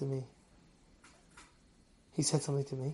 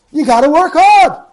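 insistent; 6 semitones higher, 8 dB louder than usual. Real, not acted. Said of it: "repeated for emphasis".

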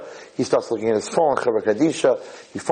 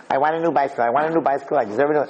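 put-on insistent kid's nagging, slightly raised pitch; pestering child; 3 semitones higher, faster than usual. Boy begging his father for a bicycle, mildly nagging. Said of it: "this kid bothered his father".

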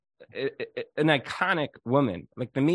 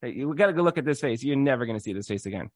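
spunky retort; faster than usual. Retold or imitated. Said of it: "she had a certain spunk".

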